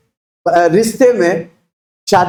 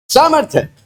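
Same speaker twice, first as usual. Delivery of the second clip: shouted sermon line; 6 semitones higher than usual. Shown as a demonstration. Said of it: "चिल्ला के बोलो ना".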